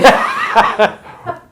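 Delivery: silent wheezing laugh; breathy laugh. Real, not acted. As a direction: laugh without voice, high. Co-host joke about groin.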